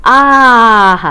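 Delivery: short acted ouch of pain; teacher acting the stung master's yelp; mock cry of pain. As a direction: cry out as if stung, half in fun. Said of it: "क्या चिल्लाया?".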